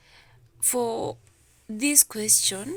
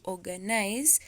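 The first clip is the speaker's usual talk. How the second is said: "organize" stressed on its opening OR; stress on first syllable. Shown as a demonstration. Teacher repeating question three for students, "organize" stressed on OR. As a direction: put the weight on OR in "organize". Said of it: "it's the first".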